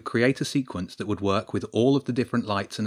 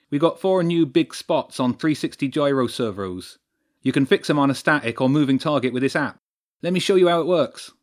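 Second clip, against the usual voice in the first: louder, lifted techie patter; keen lighting technician; 5 semitones higher, 5 dB louder than usual. Acted. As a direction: show off the gear with relish.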